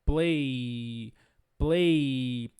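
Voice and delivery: low, long drawn-out PLAY; voiced ending. Shown as a demonstration. English teacher demonstrating the voiced end of PLAY, drawn out. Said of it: "Termina com um som voiced".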